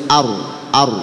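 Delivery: "ar" with a thick, heavy r. Shown as a demonstration. Teacher models the tafkhim rule to learners, heavy "ar". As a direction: say "ar" with full tafkhim on the r. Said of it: "ini karena ro tafkhim".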